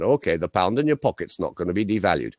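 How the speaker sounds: lightly imitated Lancashire accent; Harold Wilson. Prime minister reassuring voters on money, light Lancashire accent. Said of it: "Lancashire accent".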